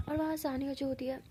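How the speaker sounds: hushed narrator aside; whisper. A narrator's reading. Narrator whispering about Saniya's move. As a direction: drop to a secret whisper.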